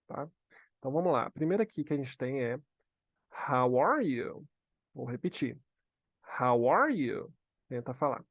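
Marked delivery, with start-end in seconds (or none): 3.5-4.5 drawn-out phrase with emphatic "are"; teacher modelling. Shown as a demonstration. 6.4-7.3 drawn-out phrase with emphatic "are"; teacher modelling. Shown as a demonstration.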